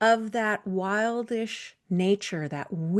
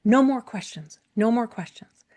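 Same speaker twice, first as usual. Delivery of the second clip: frantic doll; 4 semitones higher, much faster than usual. Acted. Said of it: "the doll starts jumping up and down in her pocket and says".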